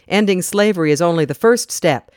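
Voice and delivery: demanding. Acted. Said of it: "Shepard demanded".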